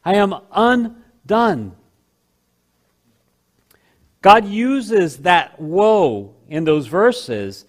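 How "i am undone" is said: high, slow wail of despair; anguished cry. Acted. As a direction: cry out undone before the throne. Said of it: "all he has left to do is to stay there and say".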